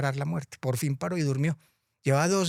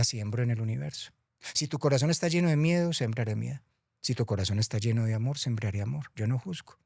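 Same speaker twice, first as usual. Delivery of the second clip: calm Death. Acted. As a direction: explain gently like a wise guide. Muerte explica con calma. (la muerte explicando con calma y ternura)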